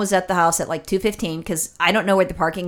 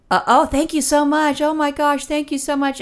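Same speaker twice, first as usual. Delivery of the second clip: gushing thanks; 7 semitones higher than usual. Retold or imitated. Sister gushing thanks to Mom.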